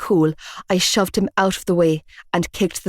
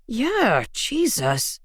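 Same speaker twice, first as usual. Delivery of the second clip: grumbling; 4 semitones higher, 5 dB quieter, much slower than usual. A narrator's reading. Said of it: "Mac grumbled".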